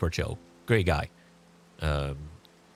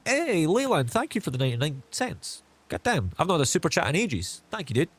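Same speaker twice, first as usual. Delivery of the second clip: excited thanks; 9 semitones higher than usual. Real, not acted. Thanking a viewer's super chat.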